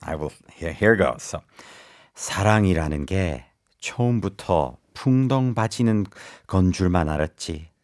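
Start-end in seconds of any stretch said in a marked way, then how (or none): 2.1-7.7 soft, lowered romantic reading. Shown as a demonstration. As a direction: read it like a tender love confession. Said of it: "Do it in your most romantic voice".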